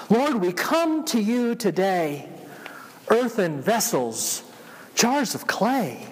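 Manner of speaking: slow, prayerful recitation; reciting hymn lyrics. Acted.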